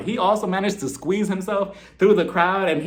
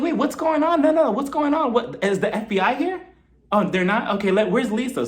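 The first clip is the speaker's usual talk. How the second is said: higher mock-panicked Jen; 5 semitones higher than usual. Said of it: "she's like".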